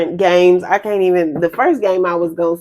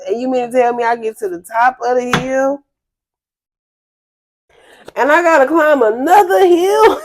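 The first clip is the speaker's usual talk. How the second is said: mock exasperated rant; 3 semitones higher than usual. Tired hiker complaining about hill.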